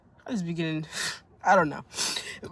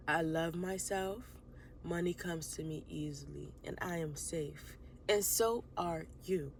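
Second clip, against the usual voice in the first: calm affirmations. Acted. She opens her vlog with calm affirmations. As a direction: say each affirmation slowly and surely.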